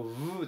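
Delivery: a drawn-out "vu"; the v sound. Shown as a demonstration. Teacher isolating the first sound of vegetable, long v. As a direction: voice the v and hold it. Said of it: "ウに点々の方の".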